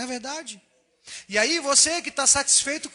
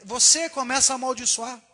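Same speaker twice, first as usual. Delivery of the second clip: cursing the car; 2 semitones higher than usual. Retold or imitated. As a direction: swear at the old car over a pothole. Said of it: "já xinga".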